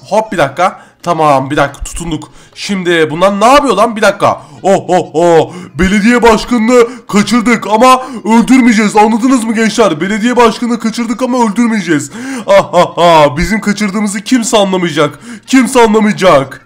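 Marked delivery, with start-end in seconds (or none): 4.6-16.6 lightly voiced villain, drawn-out boasting with mock laughs; gloating kidnapper. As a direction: play a gloating bad guy, slightly hammed-up. (hafifçe abartılı, böbürlenen kötü adam sesi)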